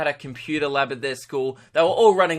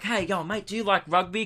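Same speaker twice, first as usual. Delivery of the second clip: put-on talking to a child; 4 semitones higher than usual. Tour-group guy to five-year-old kid, patronising kiddie talk. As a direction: imitate a tourist chatting down to a small kid. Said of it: "with exactly the same tone".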